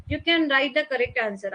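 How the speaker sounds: slow dictation. Shown as a demonstration. Slowed English line.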